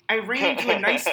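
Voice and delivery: can't hold back a laugh; breaking into laughter. Real, not acted. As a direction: laugh cracks through the reading. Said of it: "oh, it gets worse".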